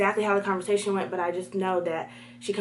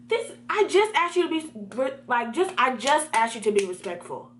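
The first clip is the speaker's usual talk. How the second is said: mildly raised, stumbling exasperation; pissed off; 3 semitones higher than usual. Acted. Student fed up with classmate, mildly acted annoyance. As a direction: stress JUST in annoyed disbelief. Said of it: "like, pissed off".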